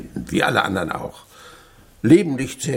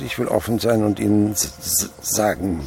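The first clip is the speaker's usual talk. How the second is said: stuttering. Acted. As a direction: stammer deliberately. Miser stalls with a stutter.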